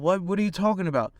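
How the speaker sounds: a high, startled what are you talking about; half-laughing disbelief, voice jumping up; disbelieving. Retold or imitated. Disbelief at visa news.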